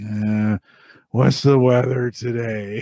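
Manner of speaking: mock barely awake, half-asleep, slow drawl. Retelling a recorded question to a voice assistant: imitating Sarah half asleep. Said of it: "Sarah must still be half asleep 'cause she was like".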